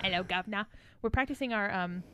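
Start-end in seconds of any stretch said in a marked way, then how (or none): 0.0-0.7 light mock-Cockney British; British accent. Host echoing her friend, mock British accent. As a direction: echo it in a playful British accent. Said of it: "British accents and our Parisian accents".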